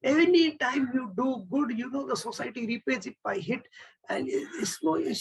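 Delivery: lightly acted high-pitched lament; hammed-up wail without real sobs; mock crying. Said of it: "She starts crying and says".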